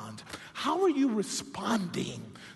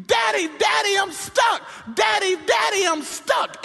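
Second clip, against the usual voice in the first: put-on high, loud child's cry for daddy; a son stuck calling his father; child screaming; 11 semitones higher, 4 dB louder than usual. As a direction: yell like a kid stuck on the bars. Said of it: "his son is literally screaming".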